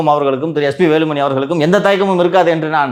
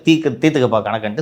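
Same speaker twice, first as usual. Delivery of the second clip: swaggering movie one liner; 2 semitones lower, faster than usual. Retold or imitated. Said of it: "அந்த punch dialogue பேசணுன்னே".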